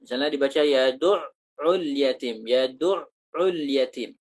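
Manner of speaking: yadu'ul slow, the ain given full tasydid without a catch; correct ain. Shown as a demonstration. Ustaz modelling correct ain for the student, slow. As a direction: say yadu'ul slowly with a strong, unheld ain. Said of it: "jangan tertahan".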